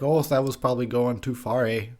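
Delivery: put-on light Canadian accent with a tagged-on eh; a mild Canadian lilt, ending on eh; Canadian impression. Canadian accent, voicing a careful movie guy. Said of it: "That's my Canadian impression".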